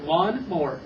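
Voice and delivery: "Lawn mower" quick and joined; said fast. Shown as a demonstration. Teacher models again for Paul, quick and connected. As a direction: say it briskly as one word. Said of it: "I want you to say it fast".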